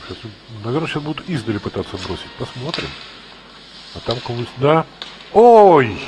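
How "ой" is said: surprised. Real, not acted. Commentator reacts to blunder.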